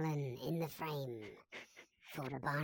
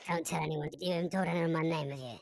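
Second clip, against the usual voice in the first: disguised voice; 4 dB louder, faster than usual. Pretend. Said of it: "an effect on your voice".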